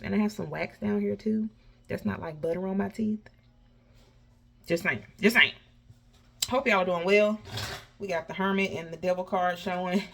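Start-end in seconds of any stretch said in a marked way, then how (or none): 4.7-5.5 slushy lisp on s. Real, not acted. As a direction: say it with a braces lisp. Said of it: "sorry about the lisp".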